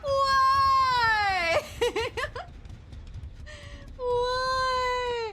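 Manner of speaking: laughing scared. Real, not acted. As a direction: plead with the killer to stop, giggling in fear. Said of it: "I'm scared".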